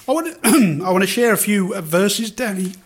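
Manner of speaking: choking, throat catching; choking on a drink. Real, not acted. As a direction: speak through a choke. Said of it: "I'm almost choking here".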